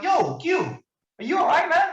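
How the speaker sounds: deliberately annoying the user with a high call. Retold or imitated. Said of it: "I'm gonna be annoying".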